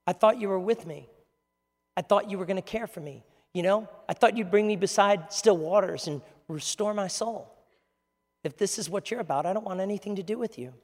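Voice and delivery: quietly voiced hurt complaint to God; mild, soft-edged grievance; griping. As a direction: let the gripe out quietly, as if let down. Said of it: "where really your gripe".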